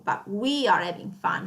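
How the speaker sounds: we weighted; we emphasized; stress on we. Shown as a demonstration. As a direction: lean on the we. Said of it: "stress out that we are having fun".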